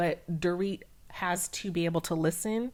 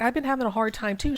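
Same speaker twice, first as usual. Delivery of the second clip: louder, fast mock comeback; indignant retort; 5 semitones higher, 6 dB louder, faster than usual. Imitating Erica snapping back at Dorit, louder and fast. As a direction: fire it back, louder and quicker. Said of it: "And Erica's like".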